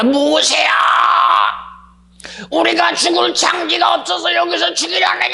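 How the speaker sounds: mock-confident shout of the grumbling Israelites; bold accusing shout. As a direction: cry out defiantly at Moses. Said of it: "아주 자신 있게 말합니다".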